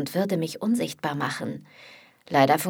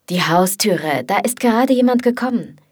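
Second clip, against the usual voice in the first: alarmed; 3 semitones higher, 7 dB louder than usual. Acted. Liam alarmed at arriving flatmate.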